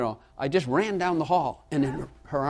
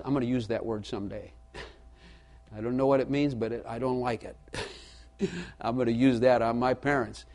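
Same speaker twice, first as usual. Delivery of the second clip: imitating toddler; 2 semitones lower, 4 dB quieter than usual. Toddler plotting against parents, soft and giggly. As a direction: play the scheming toddler lightly. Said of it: "they realize".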